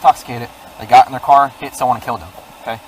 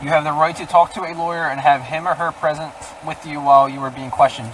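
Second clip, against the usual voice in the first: reading Miranda rights. Real, not acted. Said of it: "I'm gonna read you your Miranda rights".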